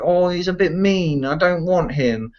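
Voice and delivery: lightly voiced fussy voter; mocking voter. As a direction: imitate a petty voter's complaint. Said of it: "because they don't like the sound of the other guy".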